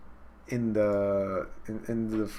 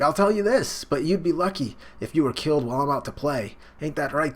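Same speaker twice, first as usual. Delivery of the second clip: higher, pushed mock taunting voice; acted taunt; 5 semitones higher than usual. Fighter taunts his rival Toriko, acted higher voice. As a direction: taunt an opponent in a raised acting voice.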